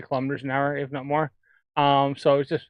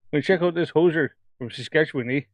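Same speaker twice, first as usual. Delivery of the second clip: lightly put-on Saskatchewan hoser accent; mock a Canadian hoser; playful attempt at hoser Canadian. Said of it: "That's me trying to do a hoser accent".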